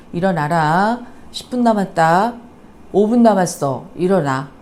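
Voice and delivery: put-on a mother losing patience at a sleeping child; building irritated nagging; angry wake-up call. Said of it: "엄마의 감정이 섞여 있죠".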